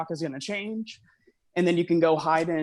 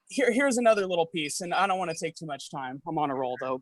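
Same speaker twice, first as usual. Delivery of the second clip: out of breath; faster than usual. Real, not acted. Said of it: "I'm also pace walking, so I'm, like, out of breath".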